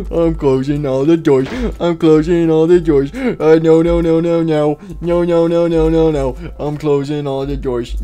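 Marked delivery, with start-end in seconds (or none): 0.1-6.3 loud, panicked repeated no's; frantic. Real, not acted. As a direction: rattle them off in a panic. Frantically shutting doors.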